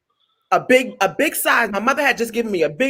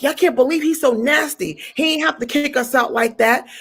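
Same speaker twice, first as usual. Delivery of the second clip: mad; 6 semitones higher than usual. Retold or imitated. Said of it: "I'm mad".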